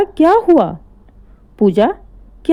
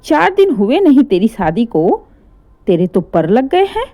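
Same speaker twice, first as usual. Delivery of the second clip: angry yelling. Acted. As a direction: yell him out of his room in fury. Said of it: "इतना तेज-तेज चिल्ला रही थीं".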